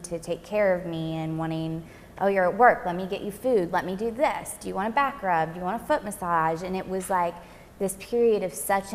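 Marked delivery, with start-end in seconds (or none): 2.2-6.6 mock sweetness. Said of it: "he was being so incredibly nice".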